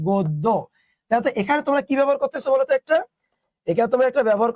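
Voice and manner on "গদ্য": গদ্য said as "goddo" with a doubled d, falling; teacher's clean model of গদ্য as "goddo"; model pronunciation. Shown as a demonstration. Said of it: "এটার উচ্চারণ হচ্ছে".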